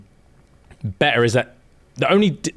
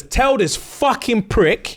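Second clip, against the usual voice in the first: high, slow, drawn-out threat; slow menace; 11 semitones higher, much slower than usual. Retold or imitated. Dragon roars at Varys: slow, high, angry threat. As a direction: spit it out slowly as the enraged dragon.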